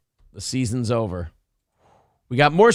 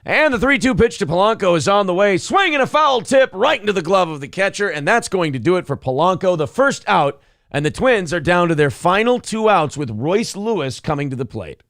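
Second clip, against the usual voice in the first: sportscaster voice; 4 semitones higher than usual. Pretend. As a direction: call it like a TV sportscaster. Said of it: "do it in sportscaster voice".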